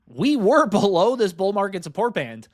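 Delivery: real excitement, bursting out high and loud at first; excited near-scream. Real, not acted. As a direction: get carried away by the chart. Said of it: "I'm screaming. I'm getting excited".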